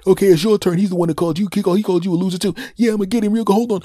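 high, loud, fast scheming voices; conspiring siblings. Retold or imitated. Siblings plotting in the kitchen, high loud glee. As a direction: siblings egging each other on, loud and high. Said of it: "people going".

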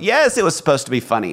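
husband assures wife it was a joke; playful insistence. Retold or imitated. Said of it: "I went".

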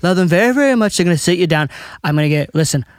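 bragging presidential impression in run-on phrases; Trump. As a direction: cut in and boast like a brash politician. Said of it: "what would Trump and Obama say".

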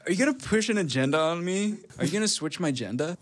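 put-on lightly accented, agenda said as "a-jenda"; mock accent with a questioning lift; put-on non-American accent. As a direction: say it in a playful foreign-sounding accent. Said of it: "I thought you were American. You sound like that kid".

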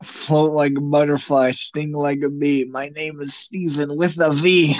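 put-on recited lightly in a British accent; playful British character voice; imitated British accent. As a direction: quote the character in mild mock British. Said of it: "It's so exaggerated".

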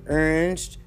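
"Orange" said as "ernge"; "Orange" squeezed to "urnj"; dialect pronunciation. Shown as a demonstration. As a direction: say "Orange" with an er sound first. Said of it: "this is how it goes".

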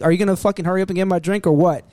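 put-on fast, pushy drunk demands. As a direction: rattle off drunk threats quickly. Voicing the drunk customer.

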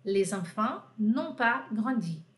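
slow, careful French negation; slow model negation. Shown as a demonstration. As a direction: give the negative form slowly. (negativa em francês, devagar)

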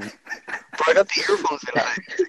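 glitchy robotic line; distorted phone connection. Real, not acted. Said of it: "You sound like a robot".

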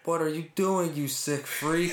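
disgusted retold quote. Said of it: "He went".

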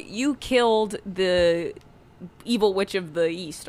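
munchkin voice. Retold or imitated. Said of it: "first they're like".

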